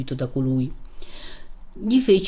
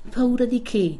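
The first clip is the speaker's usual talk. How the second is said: higher, sweet woman's voice; gentle reassuring question in a higher voice; 7 semitones higher than usual. A narrator's reading. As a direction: ask it sweetly, pitched up. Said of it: "diceva quella voce soave".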